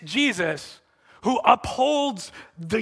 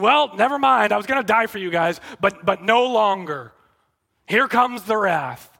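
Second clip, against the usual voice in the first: hammed-up condemnation, pushed a little louder; mock frustrated anger; 4 dB louder than usual. Preacher imagining a Jesus who gives up on his disciples, mock angry. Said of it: "In frustration and anger and condemnation?".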